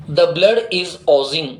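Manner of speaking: slow, measured model sentence; slow dictation. Shown as a demonstration. Teacher dictating the sentence to the class. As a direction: read it slowly for writing down. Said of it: "English में इसको बोलते हैं ओजिंग".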